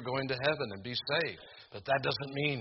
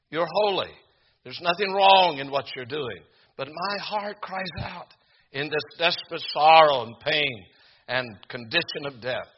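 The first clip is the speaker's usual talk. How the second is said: fervent prayer; 4 semitones higher, 7 dB louder than usual. Acted. Preacher voices Jesus' prayer.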